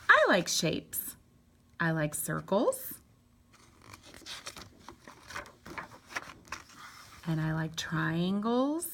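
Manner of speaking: slow picture-book reading with drawn-out shape names; slow, deliberate read-aloud for little ones; reading to children. Acted.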